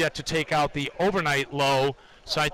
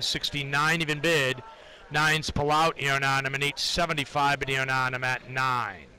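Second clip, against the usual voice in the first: trading floor price calls. Acted. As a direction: call the bids in a monotone chant. Live price ladder callouts.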